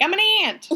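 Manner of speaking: "aunt" as "ahnt", hammed-up posh. Shown as a demonstration. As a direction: say "aunt" like "ahnt", a little pretentious. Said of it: "I don't like the way that sounds".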